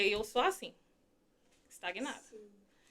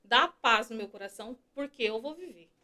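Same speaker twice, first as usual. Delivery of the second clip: soft prayer; 7 dB quieter than usual. Retold or imitated. Prays after the hymn.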